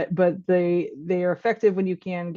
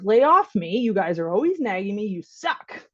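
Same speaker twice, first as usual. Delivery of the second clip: mild mock yell. Nagged teen yelling at his parent, mild mock yell. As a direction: imitate a fed-up teen, half-hearted yell. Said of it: "If he yells at you".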